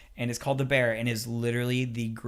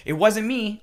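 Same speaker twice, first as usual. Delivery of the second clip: whiny denial; 8 semitones higher, 6 dB louder, slower than usual. Retold or imitated. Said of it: "people say".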